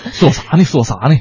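put-on not-quite-authentic Dongbei accent; playful stab at a Northeastern accent; Northeastern Chinese accent. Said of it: "这个口音不太纯了".

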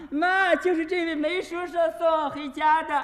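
lightly voiced child, calling out; a hint of a kid shouting to mom; child's voice. Kid pointing out the man to his mother, lightly voiced child. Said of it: "有个小孩说话了".

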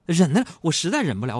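ordinary delivery

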